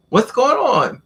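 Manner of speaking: retold conductor's high-pitched question; questioning train conductor. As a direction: imitate a puzzled conductor, pitch swooping up. Conductor confronts man holding train door.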